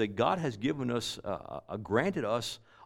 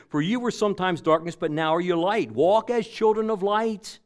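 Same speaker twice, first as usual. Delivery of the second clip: proclaimed scripture; 7 semitones higher, 5 dB louder than usual. Real, not acted. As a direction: preach the verse out boldly. Preacher proclaiming scripture verse.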